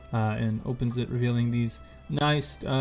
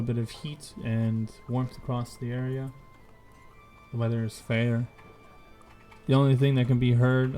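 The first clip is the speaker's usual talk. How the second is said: scene setting narration. A narrator's reading.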